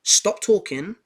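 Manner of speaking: high, loud, fast scolding teacher; stern teacher shutting a pupil down; angry teacher. Retold or imitated. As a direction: snap at the child to stop talking. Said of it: "she was like".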